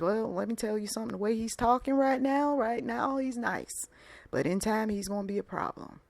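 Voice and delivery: lightly voiced Southern warner; Southern accent. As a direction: confide a warning with a touch of Southern. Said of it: "I used a Southern accent".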